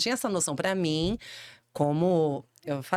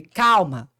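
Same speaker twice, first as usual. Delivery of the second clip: voz calma; 9 dB louder than usual. Retold or imitated. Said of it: "mudou até a voz".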